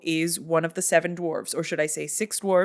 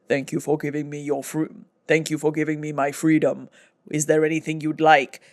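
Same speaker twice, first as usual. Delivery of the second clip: goblin voice; 3 semitones lower than usual. Retold or imitated. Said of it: "horrible goblin creature sits up and is like".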